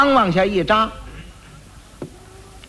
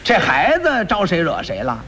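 usual speaking voice

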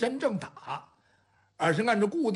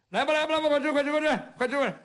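eager urging; 7 semitones higher, much faster than usual. Acted. 招呼大家快来吃饭.

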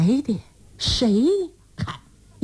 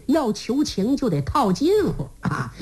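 normal talking voice

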